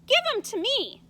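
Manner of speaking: loud, high taunting demand; loud boyish demand. Acted. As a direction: call for the toy loudly. Boy Amos demanding the toy.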